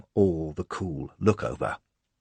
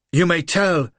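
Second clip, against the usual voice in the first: louder, scornful royal command; husky contempt; 8 semitones higher, 7 dB louder than usual. A narrator's reading. Lola scorning the little man, husky and contemptuous. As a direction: look down on him as you speak. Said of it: "husky voice charged with contempt".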